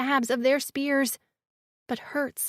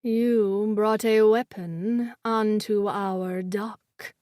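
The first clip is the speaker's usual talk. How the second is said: menacing creature voice; 4 semitones lower, slower than usual. A narrator's reading. Glazer accusation, slow.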